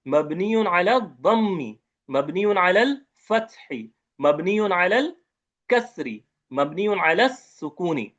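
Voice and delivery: dictation pace with each term set apart; slow recitation drill. Shown as a demonstration. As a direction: recite the endings deliberately for students to repeat. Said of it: "गोल ता के बिना बोलना है". (धीमी रटवाने वाली लय)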